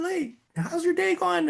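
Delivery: high, slow cheery hello; friendly greeting. Retold or imitated. Greeting a coworker at the office, cheery and high. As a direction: sing out a bright greeting to a coworker.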